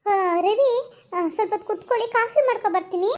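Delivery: high, syrupy coaxing offer; sweet-talking. Acted. Wife coaxing her rich husband with coffee, sugary. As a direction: coax him to stay.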